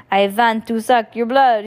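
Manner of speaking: hammed-up vampire chant. A narrator's reading. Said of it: "he chanted".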